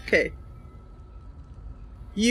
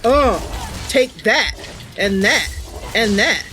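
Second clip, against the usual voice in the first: cocky taunting. Retold or imitated. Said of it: "now I'm like".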